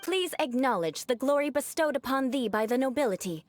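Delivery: lofty, grand noble address, lightly pompous; haughty aristocrat. Acted. Knight addressing a lowly worker in haughty noble speech. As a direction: speak down to a commoner with mock grandeur. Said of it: "my aristocratic manner of speech".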